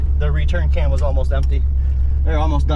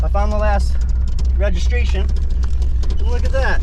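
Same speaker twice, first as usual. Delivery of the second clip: on a bumpy road; 7 semitones higher, 4 dB louder than usual. Real, not acted. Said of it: "sorry for the bumps".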